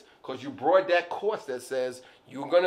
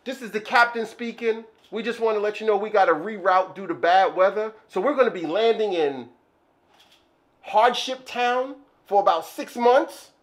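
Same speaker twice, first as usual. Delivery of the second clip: pilot announcement; 5 dB louder than usual. Acted. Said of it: "and they say".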